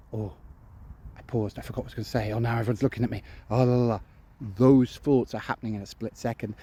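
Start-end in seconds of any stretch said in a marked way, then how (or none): 0.1-4.0 hurried, fast and much softer self-talk; panicked inner voice. Retold or imitated. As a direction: race through the worry under your breath. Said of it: "in your head you're going".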